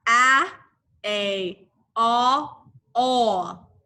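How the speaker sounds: first A called out loud, the rest lighter; sound drill. Shown as a demonstration. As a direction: lead the class through each sound. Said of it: "Let's do it one more time".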